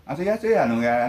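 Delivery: playful Okinawan dialect said Korean-style. Retold or imitated. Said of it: "韓国風に沖縄弁使って".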